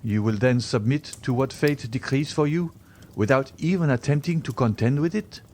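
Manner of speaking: understated sorrow; mildly mournful question; sorrowful. A narrator's reading. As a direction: ask it with restrained sadness. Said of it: "said Morrel sorrowfully".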